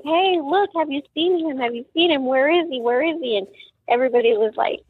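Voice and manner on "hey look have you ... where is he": retold frantic search, raised pitch; frantic pleading. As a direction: ask passers-by urgently, starting high. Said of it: "chasing people like".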